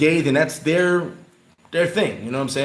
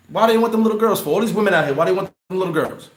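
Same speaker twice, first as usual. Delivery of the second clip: retold angry outburst; 5 semitones higher, faster than usual. To his cousin about the Italian men, heated raised disgust. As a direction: demand an answer, heated and appalled. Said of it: "And I said".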